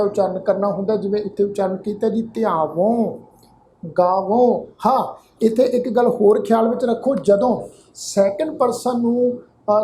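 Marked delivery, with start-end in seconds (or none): 2.2-4.6 ਧਿਆਵੋਂ, ਗਾਵੋਂ with nasalised final vowels; nasal ending. Shown as a demonstration. Teacher models first-person verbs, ਧਿਆਵੋਂ, ਗਾਵੋਂ nasal at the end. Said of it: "ਉਹ ਨਾਸਕੀ ਉਚਾਰਨ ਹੁੰਦਾ ਹੈ".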